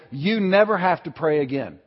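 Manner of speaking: kindly, unhurried reassurance at normal volume; gentle reassurance. Retold or imitated. Holy Spirit speaking to a guilty heart, gently reassuring. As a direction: release them gently from a duty. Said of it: "not the tone of voice he was speaking in".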